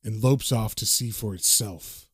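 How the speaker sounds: low, even narrator delivery; narration read aloud. A narrator's reading. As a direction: read it out as ominous caption text. The narration says.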